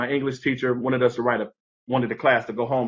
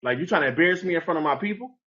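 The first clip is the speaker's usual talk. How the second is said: mild mock outburst; 4 semitones higher than usual. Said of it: "blew down on the teacher".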